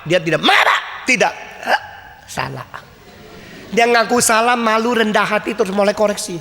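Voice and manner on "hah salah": soft, small admission; meek child. Retold or imitated. Scolded child admitting the fault, softly and meekly.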